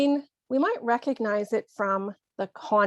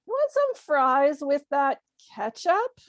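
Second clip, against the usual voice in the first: higher-pitched, teasing question; playful jibe, pitched up; joking; 4 semitones higher than usual. Acted. To a person eating more ketchup than food, joking. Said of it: "you might jokingly say".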